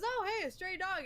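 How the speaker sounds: mock-delighted cartoon father; cheerful cartoon dad. Friends retelling a cartoon scene, chirpy high dad voice. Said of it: "He goes".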